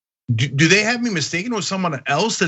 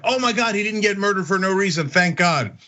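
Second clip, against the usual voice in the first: mock relief; 2 semitones higher than usual. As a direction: act out exaggerated relief, pitch easing down at the end. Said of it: "we're always like".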